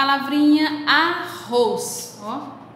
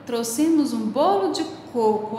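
exclaiming. Shown as a demonstration. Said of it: "com ponto de exclamação também".

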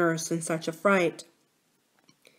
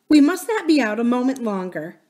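anxious nurse; 5 semitones higher, 5 dB louder than usual. A narrator's reading. Frightened nurse urging princess home.

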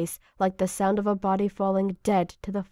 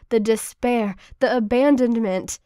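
rising anguish; 2 semitones higher, 7 dB louder than usual. A narrator's reading. Anguish building in narration.

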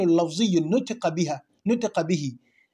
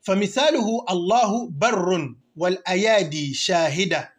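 rapid recitation; much faster than usual. Shown as a demonstration. Quoting the Alfiya verse.

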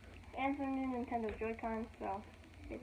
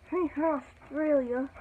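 put-on Australian accent; 4 semitones higher, 7 dB louder than usual. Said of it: "Sorry if the Australian accent is that good".

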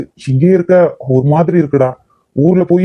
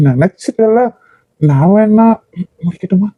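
flirty teasing; 3 semitones higher than usual. Acted.

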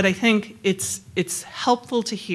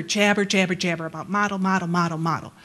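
mimicked jabbering; faster than usual. Colleague mocks the jargon chatter.

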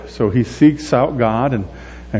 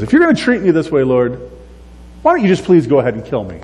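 fast, raised, fed-up demand; quick, pitched-up outburst; exasperated Moses; 3 semitones higher, faster than usual. Retold or imitated. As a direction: rattle it off at God in exasperation. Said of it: "That's what Moses says to God".

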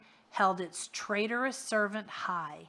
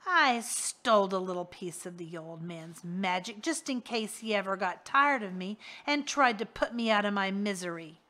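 a leering henchman, gloating; smug villain boast; 4 dB louder than usual. Acted. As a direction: brag like a crook who outsmarted his boss. Rictus explains his theft.

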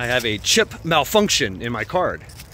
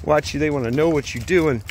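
imitating the clerk; 4 semitones higher than usual. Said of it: "He's like".

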